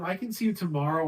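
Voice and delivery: fast, rushed "I can see you tomorrow"; rushed offer. Shown as a demonstration. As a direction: rattle it off with no pause. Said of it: "And you say it really fast".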